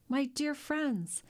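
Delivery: deeply moved. A narrator's reading. Shipowner to his loyal sailors, deeply moved. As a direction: stretch it out with feeling, pitch lifted. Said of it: "deeply moved".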